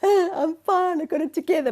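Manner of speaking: high, loud forced-cheerful voice; mock brave face. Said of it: "you're like".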